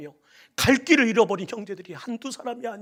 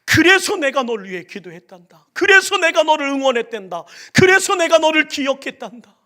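loud, rising higher with each line; building proclamation; 8 semitones higher, 12 dB louder than usual. Acted. Jesus to believers, loud building declaration. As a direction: lift the promise higher each time.

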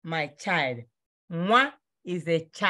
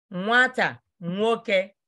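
slow teaching say; slower than usual. Shown as a demonstration. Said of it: "I want you to learn how to pronounce it".

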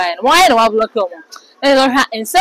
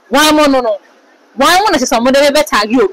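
mock indignant protest; 3 semitones higher than usual. Retold protest from a celeb.

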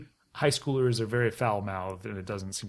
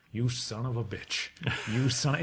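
smiling admiration; 5 dB quieter than usual. Retold or imitated. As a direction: say it through a smile, lightly imitating a teacher. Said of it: "he was smiling".

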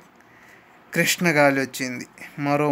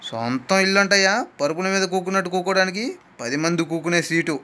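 scolding; 3 semitones higher than usual. Acted. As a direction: boss the passengers into squeezing up. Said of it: "cleaner గదమాయించి".

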